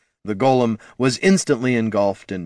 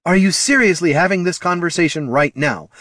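high, exasperated holler; 8 semitones higher, 3 dB louder than usual. A narrator's reading. Mage scolding the arguing pair mid-battle, hollered. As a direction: holler it in disbelief. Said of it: "hollered Loruna".

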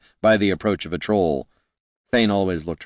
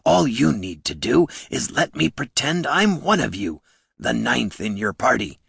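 pleading troll, pitched higher; 5 semitones higher than usual. Acted. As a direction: make the case for belonging, as a troll.

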